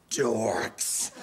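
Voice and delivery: a sneering little whispered jab; whispered aside. Acted. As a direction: whisper dorks under the breath. Snide aside about hallway guys.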